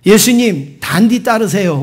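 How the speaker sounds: greeting in a lightly done Gyeongsang accent; Gyeongsang dialect. Shown as a demonstration. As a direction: give it a touch of Gyeongsang dialect. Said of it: "경상도 말로 한번 인사하겠습니다".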